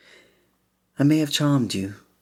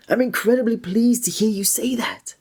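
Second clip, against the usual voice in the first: whisper; 11 semitones higher than usual. Acted. Delighted at the listener's answer.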